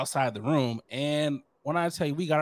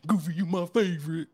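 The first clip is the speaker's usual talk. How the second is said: laughing mock kid; 3 semitones higher than usual. Kid forcing cheer with Goofy.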